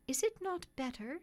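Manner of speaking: a well-bred lady stepping in; kind lady. A narrator's reading. Lady voiced.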